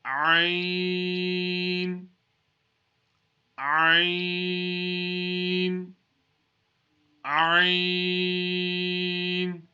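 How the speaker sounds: Ain pushed out from the middle of the throat; Arabic letter Ain from the throat; throaty Ain. Shown as a demonstration. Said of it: "pronounced from the middle of the throat".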